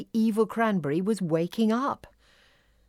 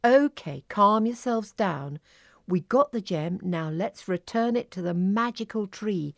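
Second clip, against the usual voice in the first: calm; 2 semitones higher than usual. Acted. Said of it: "said Lily calmly".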